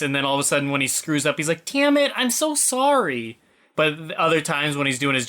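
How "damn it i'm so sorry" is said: high, panicked apology; flustered cowboy. Retold or imitated. Joey as perfume cowboy screwing up, high panicked apology. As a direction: squeak out the apology like a nervous fool. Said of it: "gruff, scruffy voice... he's like".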